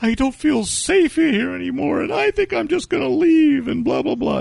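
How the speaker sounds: high, fretful mocking lady voice; mock fussy lady. Storyteller mocking the anti-gun woman, high and fretful. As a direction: whine it out like a prissy diner lady.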